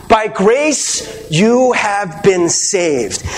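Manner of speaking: slow, weighty reading of scripture. Acted. Preacher reads the verse slowly to his congregation. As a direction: read each phrase slowly, like holy words.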